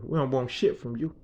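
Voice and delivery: low, soft retold dismissal; quiet refusal. Crew refusing the boss's offer, quietly dismissive. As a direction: turn him down under the breath.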